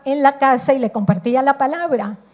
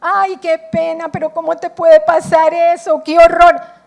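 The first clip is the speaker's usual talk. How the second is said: gushing sympathy; 3 semitones higher, 8 dB louder than usual. Retold or imitated. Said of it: "llorando con ella".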